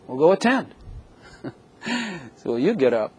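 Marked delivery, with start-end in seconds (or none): 0.1-0.7 exasperated wife. Retold or imitated. Wife Peg voiced.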